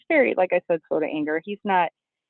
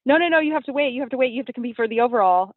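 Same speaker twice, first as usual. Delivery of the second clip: officials insisting; 5 semitones higher, faster than usual. Retold or imitated. Officials stopping her leaving stage.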